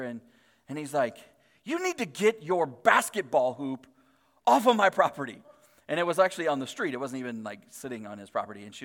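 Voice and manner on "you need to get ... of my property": storming neighbor. Retold or imitated. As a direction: lay down the order word by word. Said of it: "like, storming over to her".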